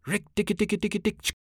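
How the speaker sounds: very high, rattling chatter; mongoose war cry. A narrator's reading. Mongoose going off into his long war cry, shrill high chatter. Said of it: "his long war cry of".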